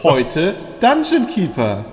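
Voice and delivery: slow mock documentary host; lesson announcer. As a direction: announce it slowly like a TV history segment. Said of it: "dann machen wir jetzt History Lesson".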